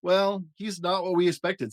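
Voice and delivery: a mother monster hiding her disappointment; let-down mother monster. A narrator's reading. Missus Monster puzzled by her pink baby. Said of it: "said Missus Monster".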